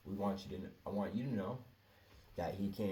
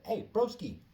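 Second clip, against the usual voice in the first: much higher, louder hey broski; high friendly greeting; 13 semitones higher, 6 dB louder than usual. Retold or imitated. Greeting the coworker in the hallway, high and loud. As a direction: sing out hey broski brightly.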